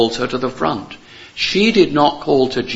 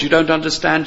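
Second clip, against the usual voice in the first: ordinary delivery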